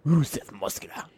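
slow, mock Russian accent; hammed-up Russian announcement. Shown as a demonstration. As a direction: put on a drawn-out Russian accent. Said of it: "I wish I could do a Russian one".

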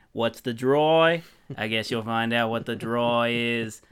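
hammed-up Aussie host voice, lightly done; put-on Australian accent, half-serious; mock Australian accent. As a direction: play a cheesy Australian bloke. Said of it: "man, your accent".

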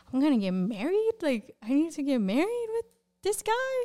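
high, incredulous questioning; retold disbelief. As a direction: act out balking at the idea, pitch climbing. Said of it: "So I'm like".

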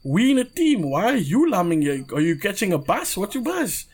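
lightly put-on Cape Coloured accent, teasing a kid on the bench. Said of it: "the colored accent".

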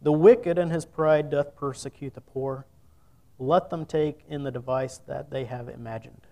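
measured, solemn reading of the psalm; a preacher reading scripture to the congregation. Acted. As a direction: read the verses out with weight. Reads Psalm aloud to congregation.

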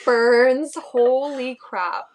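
strained by the burn; burning sensation. Real, not acted. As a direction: talk through a stinging nose. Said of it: "It burns".

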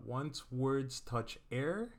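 measured, word by word, lifting on the last word; slow dictation. Real, not acted. Husband repeats his saying to be written down, slow dictation. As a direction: repeat it very slowly for note-taking. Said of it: "Say that again so I can write it down".

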